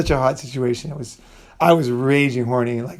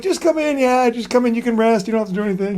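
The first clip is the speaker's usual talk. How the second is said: imitating the cleaning ladies; 9 semitones higher than usual. Cleaning ladies coax the couples in to rest, high eager voice. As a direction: squeak it out like a pushy doorway lady, easing down.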